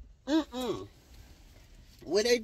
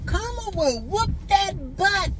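karma line sung out high and slow, teasing; sassy singsong warning; 13 semitones higher than usual. Acted. Warning viewers who wrong people, in a slow high singsong. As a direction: stretch it out high like a playground taunt.

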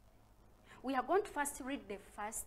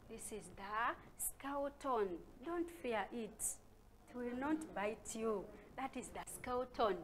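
reassuring; 5 dB quieter than usual. Acted. Reassuring children about skeleton.

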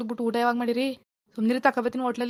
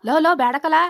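loud, higher-pitched warning; alarmed shout; 4 semitones higher, 7 dB louder than usual. Acted. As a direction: yell to stop the child at once. Father alarmed, stopping the child. (ಗಾಬರಿಯಿಂದ ಕೂಗಿ ತಡೆಯುವುದು)

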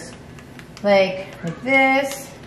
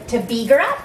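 Minnesota accent; 3 semitones higher than usual. Shown as a demonstration. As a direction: say "beag it" like a playful Minnesotan. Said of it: "that's my Minnesota accent".

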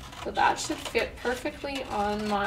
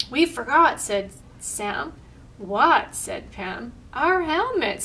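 lively picture-book read-aloud with voiced lines; reading to children. A narrator's reading. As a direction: read it out brightly to a group of kids.

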